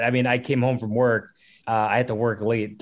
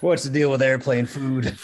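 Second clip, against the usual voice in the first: Alex Jones doing Seinfeld. Shown as a demonstration. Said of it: "do the Jerry Seinfeld as Alex Jones".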